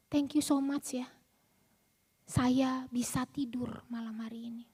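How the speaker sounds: whispered thanks, barely voiced; hushed grateful whisper. Caller whispering her thanks to Kak Nita, softly.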